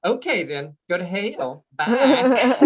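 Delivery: sweetly dismissive Georgia drawl; sweet-nasty Georgia accent. Acted. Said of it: "that same sweet accent, but she was being nasty".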